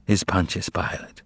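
low, drowsy murmur fading out; sleepy murmur. Acted. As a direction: let the name drift off. Drowsy mumble before the whisper.

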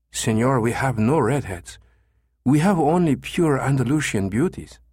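lightly voiced Spanish female receptionist; pleasant female voice. A narrator's reading. Receptionist turning down caller, lightly voiced pleasant woman. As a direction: politely correct the caller as a woman. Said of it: "a pleasant female voice".

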